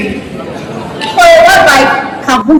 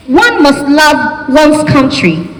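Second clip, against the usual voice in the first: "One must love one's country" said slowly and deliberately; British "one"; slower than usual. Shown as a demonstration. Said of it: "British English would just say one's country".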